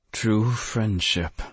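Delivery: slow, slurring the words; woozy and slurring, half-drunk; slurred. Acted. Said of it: "I slurred".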